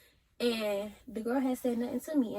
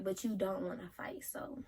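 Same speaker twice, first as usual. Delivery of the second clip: whispered, dismissive; 6 dB quieter than usual. Retold or imitated. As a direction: breathe it out under your breath. Muttering dismissive aside.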